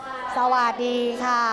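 slow, gentle phone greeting; polite answering demo. Shown as a demonstration. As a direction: greet the caller courteously. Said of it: "ใช้คำว่าอะไรคะ".

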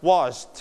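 "washed" in one syllable with a light t; soft final t. Shown as a demonstration. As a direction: let the t of "washed" be just a puff. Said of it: "ถือเบาๆนะครับ เอาใหม่นะครับ".

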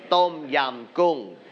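"Tom yam goong" said slowly the Thai way; slow Thai-accented "Tom yam goong", Thai vowels and tones. Shown as a demonstration. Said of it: "you need to say in Thai accent".

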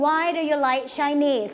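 Why do you like Chinese read slowly with the voice pressed down at the end; falling question tune. Shown as a demonstration. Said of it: "เสียงเราก็กดต่ำลงเช่นเดียวกัน". (อ่าน Why do you like Chinese ช้าๆ กดเสียงต่ำท้ายประโยค)

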